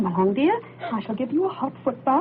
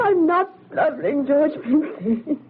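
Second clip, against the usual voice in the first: slow, offended protest; indignant denial; 5 semitones higher, 4 dB louder, slower than usual. Acted. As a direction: bristle at the teasing. Indignant denial after teasing.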